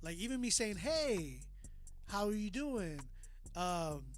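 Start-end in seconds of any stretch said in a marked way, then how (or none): 0.8-3.0 lively inflection on "Hey" and "doing"; animated hello full of character; dynamic greeting. Shown as a demonstration. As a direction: swoop up and down on "Hey". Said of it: "my dynamics in my voice".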